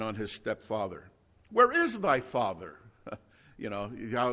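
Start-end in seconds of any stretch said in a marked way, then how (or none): 1.5-2.7 a higher, sneering "Where is thy father?"; mock him with the question; dripping sarcasm. Preacher voicing the scornful Pharisees, dripping sarcasm. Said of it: "you hear how that drips with sarcasm".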